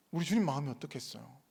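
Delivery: ordinary talk, nothing marked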